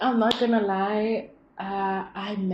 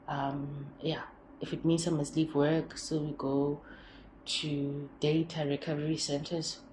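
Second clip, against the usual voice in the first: soothing partner; 3 semitones lower than usual. Pretend. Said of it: "And he's just like".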